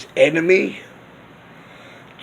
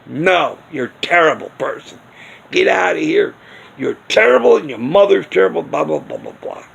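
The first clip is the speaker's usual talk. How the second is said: mock rude retort; faster than usual. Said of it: "it wasn't like I was saying".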